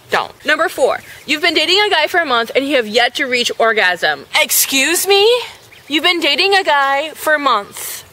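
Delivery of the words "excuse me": higher, slow mock shock; scandalized by the quiz question. Real, not acted. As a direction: draw it out, scandalized.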